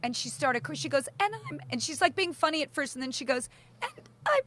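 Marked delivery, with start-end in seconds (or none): 3.8-4.4 voice going up. Retold or imitated. Daughter at the wedding toast, voice rising with emotion. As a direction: pitch jumps way higher, choking up. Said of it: "and her voice goes up".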